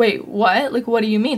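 acted flabbergasted, stunned disbelief. Retelling being screamed at during a volleyball game, retelling own flabbergasted reaction. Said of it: "I literally was so flabbergasted".

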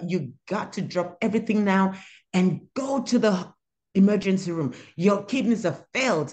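voice full of terror, urgent. Retelling the doctor's call on New Year's Eve: imitating a terrified voice. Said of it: "there was this terror in her voice".

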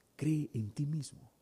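put-on, inspirational radio announcer voice. Mocking what the world teaches, saying it in an announcer voice. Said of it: "Así con voz de locutor".

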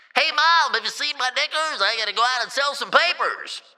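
put-on old-sounding, grown-up newsboy voice. Acting out a 1938 newspaper boy heading out to sell papers, in an aged newsboy voice. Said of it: "sound like a very aged newspaper boy".

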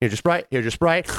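ordinary talk

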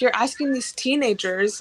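normal talking voice

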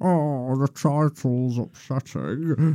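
high voice, very slow, every word dragged out. Mocking a friend who finds the section title upsetting: imitating Kemp, sounding like Zippy. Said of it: "sounded more like Zippy than Rainbow did".

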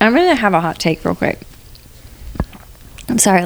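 chewing while talking, mouth full of food. Speaker about to share a hot take while eating a fruit snack, talking with mouth full. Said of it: "Let me swallow my fruit snack".

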